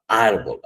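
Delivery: "árbol" with weight on ÁR; teacher's example word "árbol", stressed on ÁR; stress on first syllable. Shown as a demonstration. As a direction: lean on the ÁR of "árbol", let "bol" drop. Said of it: "tónica en la penúltima sílaba".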